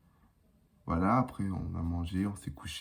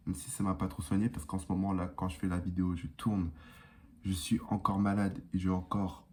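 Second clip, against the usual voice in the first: blocked nose; 3 dB quieter than usual. Real, not acted. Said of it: "j'ai le nez bouché".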